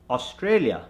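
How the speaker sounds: Australia starting on a rounded "o"; Indian accent. Shown as a demonstration. Coach gives the word to convert, Indian accent. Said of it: "from the Indian accent".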